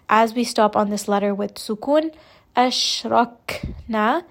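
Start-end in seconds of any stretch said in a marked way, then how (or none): 2.6-4.2 Ashrakna with a puff of air on the kaf; breathy kaf. Shown as a demonstration. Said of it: "you can hear that there is a little bit of air".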